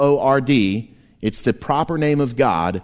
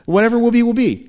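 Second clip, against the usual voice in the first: laughing sing-song; 10 semitones higher, 4 dB louder, faster than usual. Retold or imitated. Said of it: "It's a loose translation".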